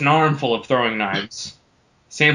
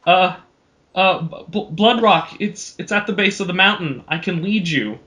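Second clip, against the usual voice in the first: slightly higher, stammering little halfling; nervous halfling; 5 semitones higher than usual. Acted. Halfling stammers directions to Samson, lightly raised voice. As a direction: stumble over the name like a nervous little guy. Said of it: "said the halfling".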